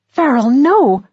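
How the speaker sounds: a real alarmed shout; warning cry. Acted.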